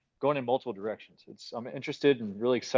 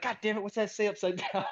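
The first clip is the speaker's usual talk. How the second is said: laughing quote; 7 semitones higher, 5 dB quieter than usual. Retold or imitated. Retelling phone autocorrect confusion.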